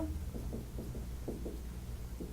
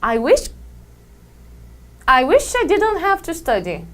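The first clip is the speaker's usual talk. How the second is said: rising pitch; 4 semitones higher than usual. Shown as a demonstration. Teacher demonstrating a wish to students, pitch rising. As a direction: voice climbs higher on the wish. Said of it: "É porque subiu o tom".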